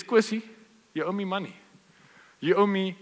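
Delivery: corner him for the money; demanding debt collector. Acted. Peter demands money from Kosi.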